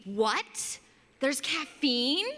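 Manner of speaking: slow, rising disbelief on caffeine; hammed-up lady stunned there's caffeine; mock shocked customer. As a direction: drag out the outraged surprise. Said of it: "the person, always a lady".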